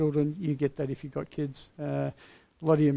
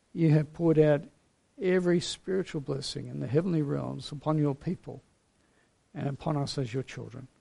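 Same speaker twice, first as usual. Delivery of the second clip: earnest, unhurried pastoral prayer; closing prayer. Acted. Pastor leading his congregation in prayer: earnest, measured tone. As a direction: pray humbly for the whole church.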